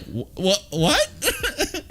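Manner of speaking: high stammered what through laughter; giggling panic at the news; laughing disbelief. Retold or imitated. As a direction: stutter it out while cracking up. Realizing the overdose, laughing.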